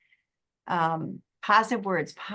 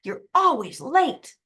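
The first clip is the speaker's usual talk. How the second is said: sulky son; 5 semitones higher, 6 dB louder, much slower than usual. Retold or imitated. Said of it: "slams the door and says".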